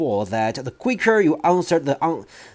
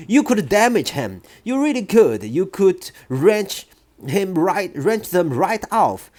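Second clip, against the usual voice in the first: higher, urgent plea; pleading teacher; 6 semitones higher than usual. Acted. Teacher pleads with headmistress, higher urgent voice. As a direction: keep begging her to stop.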